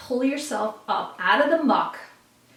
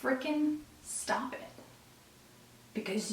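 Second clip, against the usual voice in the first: hushed urging; 3 semitones higher, 12 dB quieter than usual. Retold or imitated. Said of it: "the energy is saying".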